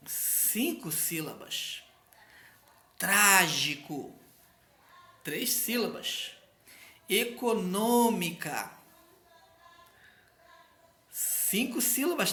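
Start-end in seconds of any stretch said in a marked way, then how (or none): 3.0-4.1 TRÁ-GI-CO devagar; sílabas separadas. Shown as a demonstration. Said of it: "bem separadinho as sílabas". 7.1-8.7 E-CO-NÔ-MI-CA devagar; sílabas separadas. Shown as a demonstration. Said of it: "bem separadinho as sílabas".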